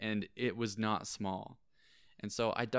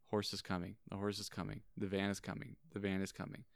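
softer, even, repeated narration; hushed suspense; 7 dB quieter, faster than usual. Retold or imitated. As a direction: build suspense in a lowered voice. Plays out slow-motion collision.

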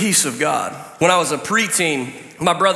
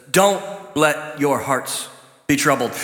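slow, lower, gentle reading of "Don't let your hearts be troubled"; calm scripture reading; correct reading; 3 semitones lower than usual. Shown as a demonstration. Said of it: "It says".

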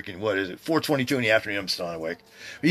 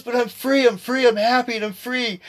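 brother's voice; 12 semitones higher than usual. Retold or imitated. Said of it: "He goes".

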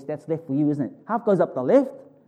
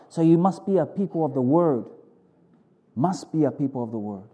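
prophetic word. Acted. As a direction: deliver it as a pleading prophetic utterance. Prophetic word spoken as God.

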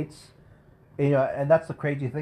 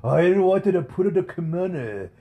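put-on high, slow Japanese-accented old man; hammed-up Japanese accent, delighted; 8 semitones higher, 5 dB louder, slower than usual. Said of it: "stereotypical Japanese accent".

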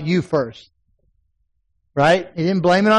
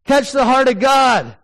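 preaching shout; 5 semitones higher than usual. Real, not acted. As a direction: call it out slowly to the room. Preacher exhorting congregation.

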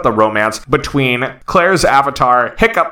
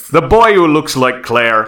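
bad Scottish accent. Host teasing a co-host in a badly faked Scottish accent. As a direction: fake Scottish drifting into Northern English. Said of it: "I think this is a Northern English accent".

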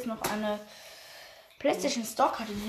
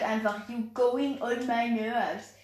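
imitating English teacher; much slower than usual. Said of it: "Unsere Englischlehrerin, be like".

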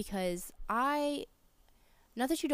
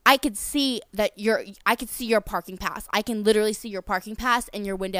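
retold angry yell; 5 dB louder than usual. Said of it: "she's, like, screaming and cursing".

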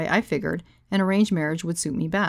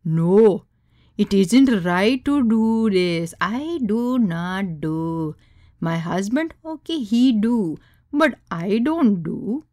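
put-on slow, insistent Indian accent; thick Indian accent; 3 semitones higher, 4 dB louder, much slower than usual. Deadpan guest refusing, slow thick Indian accent. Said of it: "in her thick Indian accent".

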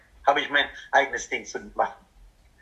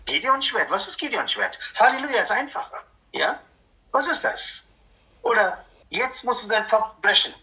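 mock whiny member; 6 semitones higher than usual. Acts a member who refuses orders.

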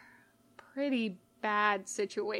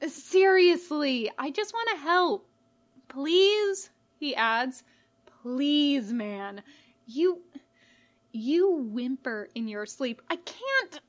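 higher, urgent, frantic reassurance; earnest pleading; 4 semitones higher, 4 dB louder than usual. A narrator's reading. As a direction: beg him to trust you. Pleading to help.

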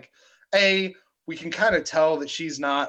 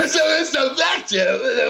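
slow, higher, booming proclamation; dramatic shout; 10 semitones higher, 6 dB louder, slower than usual. Acted. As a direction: boom it out like a grand announcer. Repeats catchphrase as dramatic shout.

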